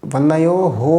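"বনয়োহো" slowly, with the last ho drawn out; overlong final ho. Shown as a demonstration. Teacher warns students against this, lengthened ending. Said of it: "দীর্ঘ যেন না হয়".

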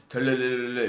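low, rolling mimicked ringtone; spoken ringtone imitation; imitated phone ring. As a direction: trill a phone ringing, low and monotone. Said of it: "다음 날 되면은".

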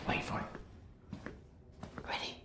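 slow tense whisper. Real, not acted. Guide waiting for the moment, whispering slowly. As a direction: hold them back in a breath.

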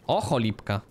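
lightly voiced low giant; a hint of a low-pitched character voice; Hagrid. Player reacting in the cave, slight low impression. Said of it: "zabrzmiałem trochę jak Hagrid".

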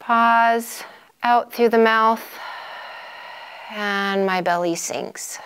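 unhurried breathing cues with long pauses; guided breathing. Shown as a demonstration. Instructor demonstrating a couple of breaths, calm paced guidance.

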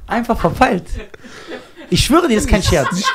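high, giggling through the words; laughing. Real, not acted. Laughing to friend about crashing. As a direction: laugh it off, embarrassed.

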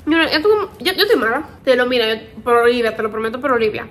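talking through a mouthful of food; chewing while she talks; mouth full. Real, not acted. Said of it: "que estoy hablando con la boca llena".

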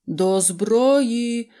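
rally the gunners with one sharp cry; call to arms. A narrator's reading. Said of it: "гукнув генерал своїм артилеристам".

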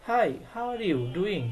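slow, all in one breath; the wrong way, no pause after hi; slow run-together demo. Shown as a demonstration. Teacher showing how not to join hi to the question, slowly. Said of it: "হাই বলার পরে একটু থামতে হবে".

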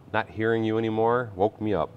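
normal talking voice

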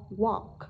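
"walk" with a long O vowel. Shown as a demonstration. English teacher models the vowel in "walk", long O. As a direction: draw out the O in "walk". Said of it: "phát âm là O".

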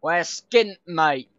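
broad cockney London twang; mock London geezer voice; obnoxious London accent. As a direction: lay on a cheeky London accent. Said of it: "In this really obnoxious London accent".

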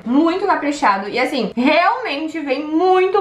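talking behind hand; muffled through covering hand; chewing with mouth full. Real, not acted.

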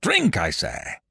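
high-pitched tyrant's mock shout; shouted command. A narrator's reading. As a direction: cry out the order, pitch way up. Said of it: "shouted the monster".

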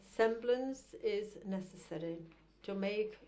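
deliberate, formal verse recital; measured poetry-reading cadence with set pauses; poem reading. Acted. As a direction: recite it as a poem, weighing each phrase. Reads a poem aloud.

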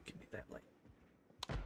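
slow faint whisper. Real, not acted. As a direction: whisper it slowly. Sneaking in the dark house.

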